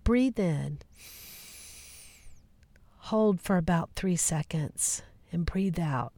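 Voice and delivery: gently paced meditation guide with long pauses; guided meditation. Acted. Host guiding listeners into the field of possibilities, guided meditation.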